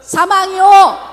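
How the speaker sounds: loud, very slow proclaimed answer; congregation's loud drawn-out reply; shouted response. Real, not acted. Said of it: "한번 외쳐보겠습니다".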